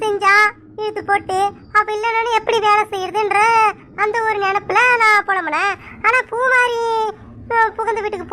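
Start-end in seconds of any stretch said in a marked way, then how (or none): 6.1-8.3 tearful. Acted. Mother tearful at daughter's send-off.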